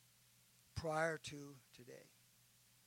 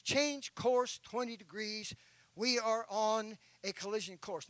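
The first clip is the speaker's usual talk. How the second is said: urgent warning signal; 4 semitones higher, 8 dB louder than usual. Acted. Ship signals warning by lights.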